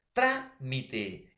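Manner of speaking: "trámite" broken into syllables, TRÁ hit hard; stretched "trámite", leaning on TRÁ; stress on first syllable. Shown as a demonstration. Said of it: "cómo tú vas a colocar el acento".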